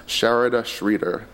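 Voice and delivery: Sharada Schroeder said slowly, each syllable clear; careful pronunciation. Shown as a demonstration. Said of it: "now I will pronounce her name as".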